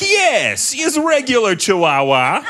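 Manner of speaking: high, hammed-up Russian accent; a mock Russian official, proud and deadpan. Russian officials presenting their dog, in a Russian accent. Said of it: "They'd be like".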